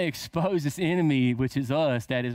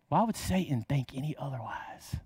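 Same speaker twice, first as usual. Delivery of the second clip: hushed, breathy secret whisper; 2 semitones lower, 6 dB quieter than usual. Acted. Preacher whispers about Satan's voice.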